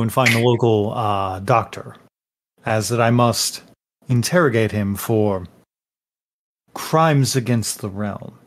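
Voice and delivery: a hint of a pompous officer of the realm; self-serious noble. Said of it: "in a very self-serious pose".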